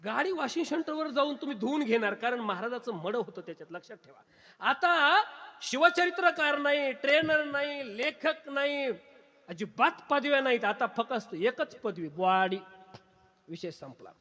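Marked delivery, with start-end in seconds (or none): 4.6-12.6 slow, raised preacher's voice; emphatic preaching. Acted. Preacher strips away his titles before the congregation, slow and emphatic. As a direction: draw each title out high, then land the last.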